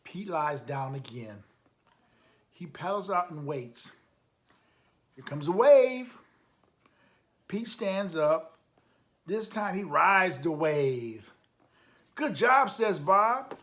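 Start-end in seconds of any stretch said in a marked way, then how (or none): 5.1-13.6 much higher, louder and slower, building to the big ride; thrilled storyteller cheering the hero on; excited reading. Acted. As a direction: read it like the moment he finally makes it. Reader builds up the big moment.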